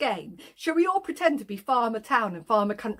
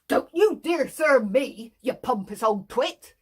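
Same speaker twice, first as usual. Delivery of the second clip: cross farmer; 4 dB louder than usual. Acted. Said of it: "says Farmer Country".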